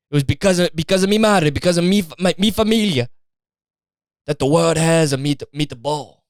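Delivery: a mock Italian that slides into Mexican, insisting it's true; Italian accent. Italian guy insisting to skeptic it's the truth, sliding Italian-Mexican accent. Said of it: "I just turned Mexican somehow".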